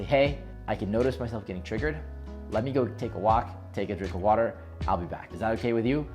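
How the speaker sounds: calm, even request to step away; composed, unhurried exit from an argument; not triggered. Acted. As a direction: say it softly and evenly, without heat. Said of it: "such a not triggered way".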